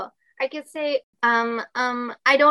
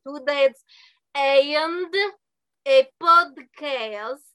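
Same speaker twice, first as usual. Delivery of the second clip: AND set apart by pauses, mock Russian; slow, separated "and", then a long drawn-out "podcast"; stress on AND; 2 semitones higher, much slower than usual. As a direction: spell it out word by word, leaning on AND. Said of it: "it is important that it is the "and a podcast".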